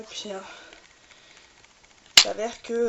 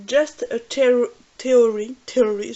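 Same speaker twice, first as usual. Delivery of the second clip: English title in a French accent; loud, effortful French-accented English; rough French accent; 8 dB louder, slower than usual. Real, not acted. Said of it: "désolé pour mon accent pourri".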